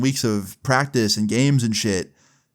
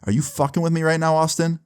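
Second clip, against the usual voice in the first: retold tense challenge, held higher; incredulous challenge; 6 semitones higher than usual. Jimmy sits down next to him, incredulous and menacing. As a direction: demand the truth in a raised pitch. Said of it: "with this crazy look in his eye".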